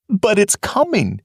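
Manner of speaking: "coming" said high but steadier; "coming" with a falling, uneasy tone; fearful warning. Acted. First take of the warning.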